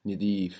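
Nidif with a short first i; Egyptian vowel. Shown as a demonstration. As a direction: Nidif as ni-DEEF, Egyptian Arabic. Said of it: "Egyptian Arabic".

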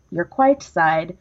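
"quite" with a hard kw and long i, slowly; quite said as written. Shown as a demonstration. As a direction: read "quite side" deliberately slow. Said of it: "not quiet".

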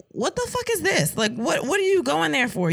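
retold incredulous questioning. Wife questioning partner about the store, incredulous. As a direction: replay your baffled challenge.

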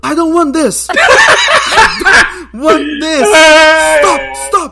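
high-pitched hammed-up screaming in English; retold panicky yell. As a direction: act out a tourist yelling to be left alone. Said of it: "Aí eu dei um grito". (grito agudo de pânico, encenado)

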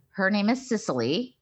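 Cicely said as SIS-lee with a crisp S; correcting the name. Shown as a demonstration. Correcting a fan who mixes up the names, Cicely as SIS-lee. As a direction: stress the first syllable of Cicely, SIS-lee. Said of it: "And I wanna say".

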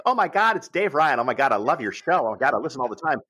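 high, gushing starstruck fan voice; gushing babysitter. Retold or imitated. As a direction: gush like a fan who just met her idol. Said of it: "she's like".

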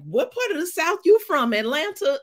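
high, quizzical New Yorker asking; curious New Yorker. Retold or imitated. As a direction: ask like a puzzled outsider. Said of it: "people were like".

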